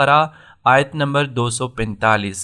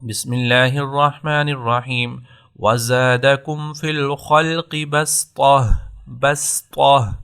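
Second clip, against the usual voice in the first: Quran recitation. Shown as a demonstration. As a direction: recite calmly in tajweed style. (آہستہ تجوید کے ساتھ تلاوت)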